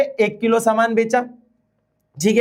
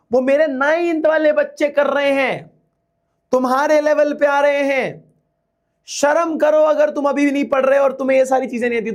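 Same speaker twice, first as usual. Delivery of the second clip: retold scolding; 5 semitones higher than usual. Teacher retelling how they scolded eleventh and twelfth graders, mock scolding. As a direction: re-enact shaming the older students. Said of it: "मैंने उन लोगों को बहुत डांटा था".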